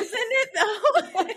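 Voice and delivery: laughing agreement. Real, not acted. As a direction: agree while laughing hard. Both laughing at the story.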